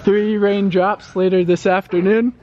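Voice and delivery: weatherman forecast. Pretend. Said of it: "now give it in English".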